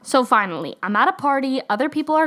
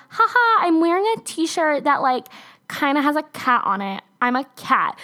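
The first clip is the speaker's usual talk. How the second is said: mocking ditzy voice; 5 semitones higher than usual. Mocking lazy costume wearers.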